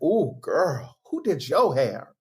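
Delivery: put-on admiring ooh-girl compliment; impressed compliment. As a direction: gush over the new hairdo. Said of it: "they're like".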